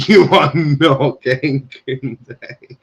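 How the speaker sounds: slow, drawn-out denial; emphatic dismissal. Real, not acted. Host telling Arsenal fans to forget Koundé, slowly and emphatically. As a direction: stretch every word to rule it out.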